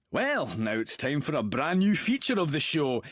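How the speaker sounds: presenter's link rising to a flourish; radio show host. Acted. Host introducing a new feature, showy presenter voice. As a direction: announce a new feature with relish.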